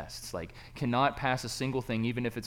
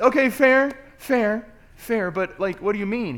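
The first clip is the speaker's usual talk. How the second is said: much higher and louder, sheepish; high squeaky reply; 10 semitones higher, 10 dB louder than usual. Retold or imitated. Student conceding to his professor, high and squeaky. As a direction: squeak it like the small guy.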